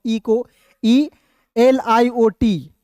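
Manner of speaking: letters spelt out very slowly, one by one; slow spelling out. Shown as a demonstration. Teacher spells letters slowly for students. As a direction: slowly spell the word for the class. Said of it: "जब भी बीच में आता है".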